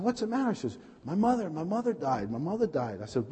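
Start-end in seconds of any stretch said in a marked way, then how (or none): 0.0-0.5 high, anxious retold question; alarmed question. Husband asking his screaming wife, alarmed. 1.0-3.0 mock crying wail. Wife learning of her mother's death, imitated wailing. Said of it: "she started crying and screaming".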